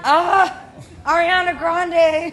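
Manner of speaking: high, loud, slow teasing shout; playful shout. Real, not acted. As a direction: yell the name back as a joke.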